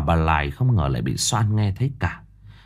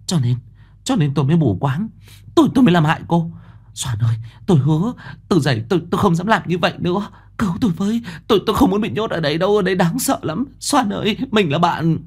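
high, fast, begging voice; pleading change of tone; 10 semitones higher, faster than usual. A narrator's reading. Mẫn begging Soan to save her, high pleading. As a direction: plead like your life depends on it. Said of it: "Mẫn bắt đầu đổi giọng".

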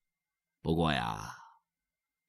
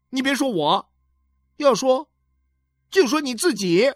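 higher, louder bitter son; pitched-up resentful son; angry son; 7 dB louder than usual. Acted. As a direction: hit back at his mother. Son snaps at mother.

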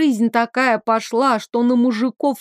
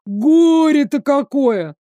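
whining lament; 4 semitones higher, 4 dB louder, slower than usual. Acted. Whiny lament.

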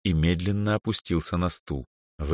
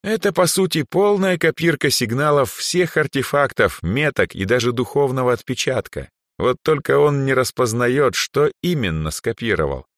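higher voice, patiently explaining; old archmage; 7 semitones higher, 3 dB louder than usual. Acted. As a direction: lecture the apprentice patiently. Andre explains artifact. (архимаг терпеливо объясняет)

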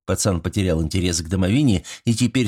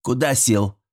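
stern tone; 2 semitones higher than usual. Acted. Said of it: "строгим тоном велела".

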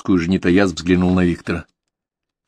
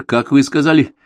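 stunned; 8 semitones higher, 7 dB louder than usual. A narrator's reading. Viktor stunned by the name.

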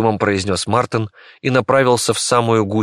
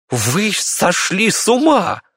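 slow, higher cry of disbelief; shocked Bey; shocked doctor; 11 semitones higher, slower than usual. Acted. Bey to the mob, a slow, higher shocked cry.

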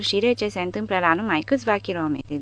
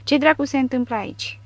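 called-out demand; 7 semitones higher than usual. A narrator's reading. Soviet fighter bursting in on an infantryman, calling out. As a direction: demand an answer in a raised pitch. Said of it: "strigă într-o germană aproape fără accent".

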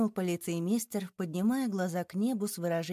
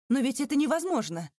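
higher and louder cry of disbelief; desperate protest; 7 semitones higher, 4 dB louder than usual. A narrator's reading. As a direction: refuse to believe it. Banker protests immediate execution.

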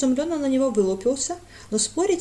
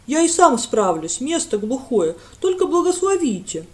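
eager village lad; 3 semitones higher, 7 dB louder than usual. A narrator's reading. Lad reassuring the priest.

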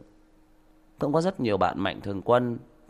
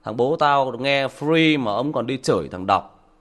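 louder, mocking kid dismissing his dad; a hint of a scornful son, slowed; lightly voiced scornful son; mocking teen son; 6 dB louder, slower than usual. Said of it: "nó bảo".

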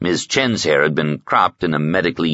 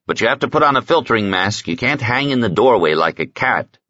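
higher, brisk character voice; lightly voiced Raven, brisk; 6 semitones higher than usual. Medic ordering visitor to wear a mask, brisk.

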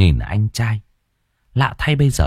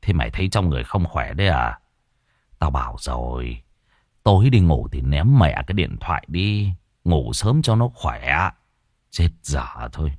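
gruff father; 5 semitones lower than usual. Acted. Father scolding son, voiced.

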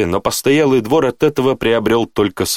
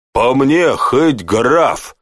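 dismissive, pitched up; rude interruption; 4 semitones higher, much slower than usual. A narrator's reading. Guard brushes off the baron's title, rudely dismissive. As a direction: cut in with rough indifference. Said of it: "перебил стражник".

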